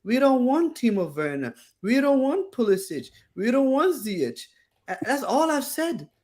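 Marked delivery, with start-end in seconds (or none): 0.0-4.4 imitating moaning fans in a repeated falling tune; lightly mimicked fan grumbling; mock complaining. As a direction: list each gripe with the same lilt. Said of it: "full of Chelsea fans complaining".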